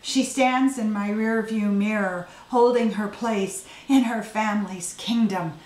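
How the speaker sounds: measured, deliberate poem recital; poetry reading. Acted. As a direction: read your poem aloud, line by line. Poet reading own poem aloud.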